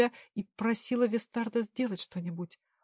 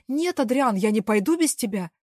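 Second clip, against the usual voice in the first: wailing; 6 dB louder than usual. Acted. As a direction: cry out refusing to leave him. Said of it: "завопила я".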